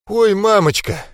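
high, drawn-out trembling wail. Acted. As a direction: quaver it out in fear. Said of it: "дрожащим голосом протянул Джексон".

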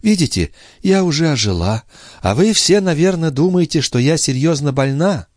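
put-on young sister making light of her illness; sister's voice. A narrator's reading.

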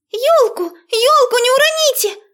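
high, loud call; Дуня shouting. A narrator's reading. Girl calling to the chasers, high and loud. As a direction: shout a warning across the room. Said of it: "крикнула Дуня".

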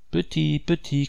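high, brave call out of the window; high courageous cry to the bird. A narrator's reading. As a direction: call the bird high and firm, holding back tears. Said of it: "cria-t-elle courageusement".

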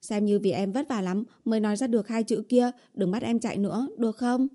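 put-on lightly coaxing girlfriend voice; pleading heroine. Girlfriend begs boyfriend not to make her run, coaxing. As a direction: plead sweetly, lifting at the end.

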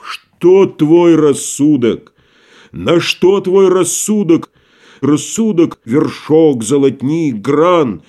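slow, weighty mockery; lightly declaimed contempt; scornful tragedian. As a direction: measure his reason out grain by grain. Tragedian mocks merchant's reason.

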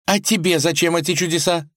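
put-on high, upset young wife's voice; a princess pleading for her father, sniffling; tearful tsarevna. A narrator's reading. Vasilisa argues with husband Vanya, high and upset.

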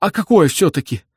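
high, insistent question; insistent old man. A narrator's reading. Old man presses Bender about dreams, high and insistent. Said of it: "настаивал старик".

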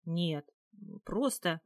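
halting, with a gap between words; faltering. A narrator's reading. Captive not knowing how to explain, faltering. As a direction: break off, searching for the explanation. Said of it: "запнулась".

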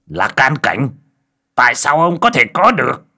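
high, loud astonished cry; shocked disbelief. Acted. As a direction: exclaim it in acted shock. Character shocked by rival's power.

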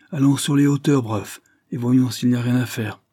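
rally him to go now; urgent call. Acted. Urging the butler to act.

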